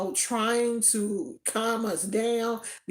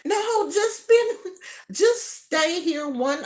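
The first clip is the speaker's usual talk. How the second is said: coaxing colonel; 8 semitones higher, 4 dB louder than usual. Retold or imitated. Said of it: "And he was like".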